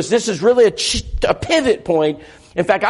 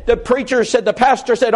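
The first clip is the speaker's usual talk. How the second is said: ordinary talk, nothing marked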